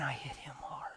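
soft whispered confession; whispered aside. Real, not acted. Pastor confiding to the congregation, hushed whisper. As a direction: lean in and whisper it.

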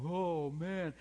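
imitating someone who regrets their past; mock regret. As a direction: sigh it like a sorry sinner.

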